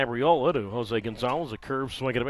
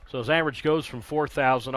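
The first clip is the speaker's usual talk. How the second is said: sarcastic; 3 dB louder than usual. Acted. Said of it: "I'm being sarcastic".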